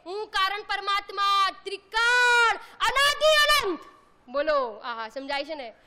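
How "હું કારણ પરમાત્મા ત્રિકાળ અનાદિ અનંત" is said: solemn recitation. Retold or imitated. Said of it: "ગુરુદેવશ્રી રોજ સવારના કહે છે".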